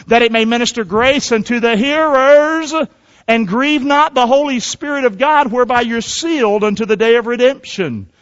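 emphatic, projected Bible reading; preacher reading scripture aloud with force. Acted. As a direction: proclaim the verse to the congregation. Reads scripture aloud to congregation.

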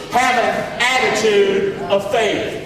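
each word drawn out slowly; slow call. Shown as a demonstration. Preacher leading the church to repeat, slow. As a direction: lead the phrase slowly for repeating. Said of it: "Would you say that with me?".

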